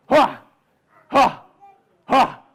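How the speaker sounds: mild, punchy huffs; bear's effort grunts. Acted. Bear climbing the tree.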